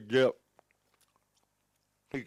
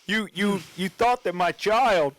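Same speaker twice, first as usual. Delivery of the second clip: slow, higher mock Canadian accent; muddled put-on accent; 3 semitones higher, slower than usual. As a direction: accuse in a badly faked Canadian accent. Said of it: "What the fuck accent is this?".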